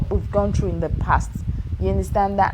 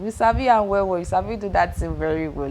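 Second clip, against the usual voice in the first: Nigerian Pidgin. Acted. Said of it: "Ladies, you know how they do that thing".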